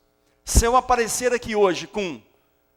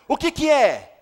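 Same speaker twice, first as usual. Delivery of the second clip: louder, eager father blurting the question; excited father; 4 semitones higher, 6 dB louder, slower than usual. Acted. Nervous father in the corridor asks the nurse, loud and eager. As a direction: burst out O que que é like an anxious new dad.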